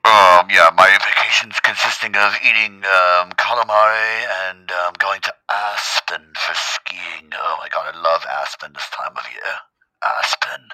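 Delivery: loud, slow, put-on snooty voice; mock bougie rich guy. Mocking the cousin skiing in Aspen, snooty put-on voice. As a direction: ham up a pampered rich vacationer.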